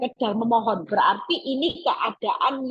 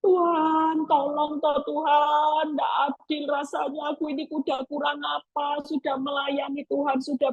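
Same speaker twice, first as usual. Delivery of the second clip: crying to God; 4 semitones higher than usual. Retold or imitated. Desperate believer crying to God.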